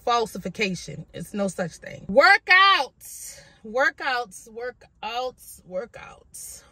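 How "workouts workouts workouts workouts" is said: fading repetition. Acted. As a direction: let it fade away to a whisper. Repeating word, fading out.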